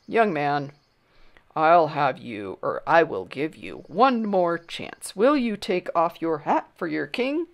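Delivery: a hint of a severe king, slow and deliberate; measured royal warning; stern king. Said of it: "looked down at Bartholomew severely".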